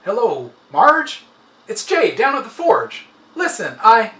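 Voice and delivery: a man calling with bad news, tense; coworker on the phone. A narrator's reading.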